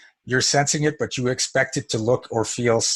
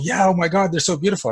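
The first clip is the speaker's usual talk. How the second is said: mock gushing; 7 semitones higher than usual. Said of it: "a whole bunch of people go".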